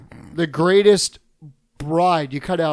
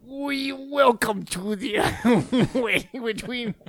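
Missus Bighead impression; 4 semitones higher, 5 dB quieter, much slower than usual. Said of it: "That's Missus Big Head".

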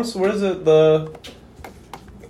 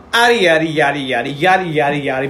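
dramatic poem reading. Pretend. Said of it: "read 'em like a dramatic poem".

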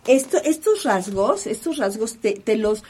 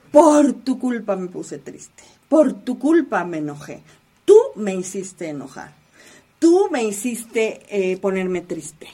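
louder, accusing quote of someone who blames; blaming accusation; 5 dB louder than usual. Retold or imitated. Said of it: "Culpamos al otro de mis emociones".

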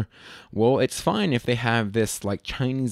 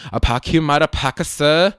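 louder mock Korean accent; 3 semitones higher, 6 dB louder than usual. Retelling an audition request, mock Korean accent. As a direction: put on a caricature Korean accent. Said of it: "asked to do a Korean accent".

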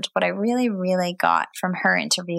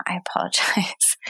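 whispering. Real, not acted. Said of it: "I've butchered her name".

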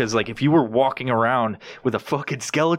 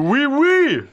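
very high loud squeaky alien; 14 semitones higher, 5 dB louder than usual. Pretend. Joking about alien fingers, squeaky alien.

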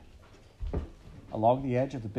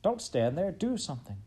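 frantic plea; 6 semitones higher than usual. A narrator's reading. Frantic sister scolding.

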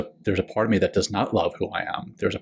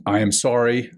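sincere apology; 2 semitones higher than usual. Retold or imitated. Reciting the forgiveness phrases.

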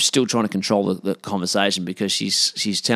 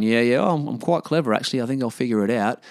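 smart-arse; 2 semitones higher than usual. Retold or imitated. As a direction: brush them off with breezy self-assurance. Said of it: "giving them the old smart ass, you know, remarks".

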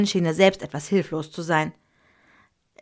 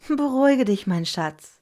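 soothing mother; 5 semitones higher, 4 dB louder than usual. A narrator's reading. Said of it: "lächelte sie".

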